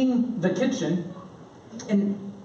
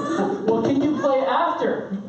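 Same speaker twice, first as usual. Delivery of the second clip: put-on persistent young daughter; 5 semitones higher than usual. Daughter persists after refusal.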